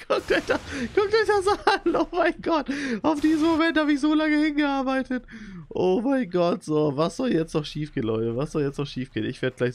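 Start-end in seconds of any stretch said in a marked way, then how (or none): 0.0-5.2 high-pitched delighted squeal; squealing with glee; excited squeal. Real, not acted. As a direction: gush with giddy excitement. Excited reveal to viewers.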